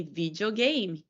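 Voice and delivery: "video game" said the Brazilian Portuguese way; Brazilian-accented "video game". Shown as a demonstration. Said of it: "We have to say".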